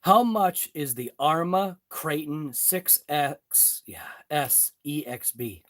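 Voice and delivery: stumbling, slow, words tangled; tongue-tied. Real, not acted. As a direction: trip over the product name. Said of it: "I got tongue-tied".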